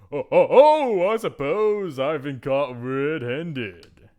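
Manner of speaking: hammed-up owning up; caught-out knight. Knight caught practising at night, hammed-up admission.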